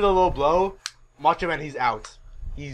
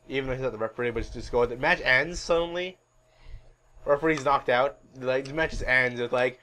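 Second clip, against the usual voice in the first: ordinary talk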